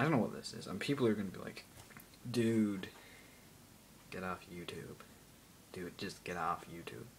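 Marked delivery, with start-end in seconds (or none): 2.3-5.0 put-on American accent. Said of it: "I can just switch to an American accent". 5.7-7.0 put-on slow, whispered American accent on "Dude, just get off YouTube". Imagined viewer telling him off, hushed American accent. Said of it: "I can just switch to an American accent".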